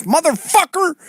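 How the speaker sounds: high-pitched Josh Denny voice; Josh Denny impression. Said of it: "gay black dude that says".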